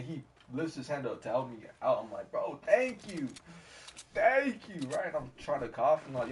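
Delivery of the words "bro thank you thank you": high, exclaimed acted gratitude; relieved thanks. Swimmer to lifeguard helping him out, high mock relief. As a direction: thank a rescuer emphatically, rising to a cry.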